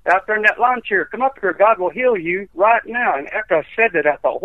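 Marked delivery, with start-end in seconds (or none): 0.1-3.2 mild calling-out, pitched up; retold holler. Preacher calling to a man in a lawn chair, mild holler. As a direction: call across the tent without really shouting. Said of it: "I hollered at that man".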